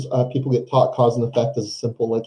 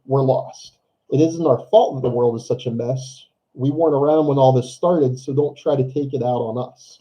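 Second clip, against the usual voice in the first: teacher voice. Acted. Teacher reading a play quote to the class, light teacher voice. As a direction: read it out in a mild teacher voice. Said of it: "in my, uh, teacher voice".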